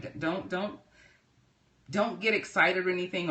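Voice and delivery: normal talking voice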